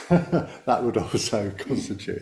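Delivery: talking through a light laugh; chuckling. Real, not acted. Meditation teacher amused while explaining to the group, chuckling. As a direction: let a small, real chuckle break into the words.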